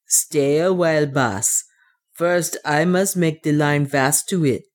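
put-on lightly accented dwarf instructing his master; measured, slightly foreign-sounding dwarf voice; practical dwarf. Otter tells his master to wait for the rope, dwarf voice.

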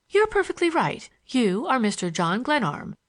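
lightly voiced schoolgirl, lilting; a hint of a candid young girl. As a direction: introduce yourself with a light girlish lilt.

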